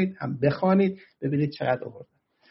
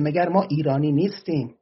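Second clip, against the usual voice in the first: put-on light Arabic accent on the Persian words. Khuzestani Arab protester asks if they are Iranian, light Arabic accent. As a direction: quote a Khuzestani compatriot in a mild Arabic accent. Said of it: "با لهجهٔ عربی میگه".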